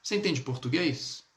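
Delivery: "português" lifted as a question; question intonation. Shown as a demonstration. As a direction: ask "Você entende português?" with a rising tune. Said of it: "É uma pergunta".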